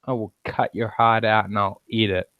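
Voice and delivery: low, quiet mock menace; softly mock-threatening; mock threat. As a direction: deliver the threat low and understated. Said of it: "it's like".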